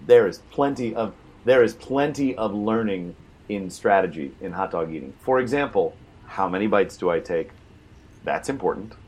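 mock-earnest, deadpan sarcasm; sarcastic. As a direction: pretend to argue it seriously. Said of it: "I'm being incredibly sarcastic".

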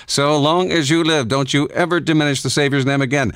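indignant. Acted. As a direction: play the offended preacher giving a stern order. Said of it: "he swept indignantly into the shop".

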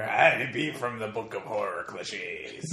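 creepy caretaker. Acted. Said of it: "There's an old creepy caretaker".

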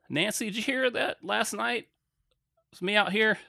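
sheepish apology. Retold or imitated. Apologizing to elderly neighbor Nancy, sheepish and slow. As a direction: tiptoe around the confession.

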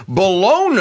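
"Bologna" said with a plain N, ending "-OH-nuh"; pronunciation without Y. Shown as a demonstration. Querying a co-host's pronunciation, "Bologna" with no Y sound. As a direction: say "Bologna" as buh-LOH-nuh. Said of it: "I thought the Italians pronounced it Bologna".

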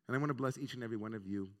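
rushed, fast "bless each and every one of you"; quick blessing. Real, not acted. Rabbi blessing the congregation quickly before correcting himself, rushed. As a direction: hurry through the blessing. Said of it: "No, God, please".

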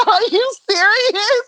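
can't believe it was five dollars; stunned scolding of the thief, pitched high; retold disbelief.

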